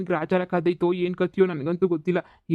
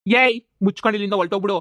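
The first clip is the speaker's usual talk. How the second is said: angry shout; 5 dB louder, faster than usual. Acted. Quarrel, ordering neighbour away.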